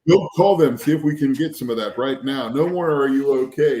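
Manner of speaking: imitating a suddenly insistent wife, loud start; acted demanding wife; wife switching up. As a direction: order it urgently, dropping the mock concern. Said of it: "And she switched up".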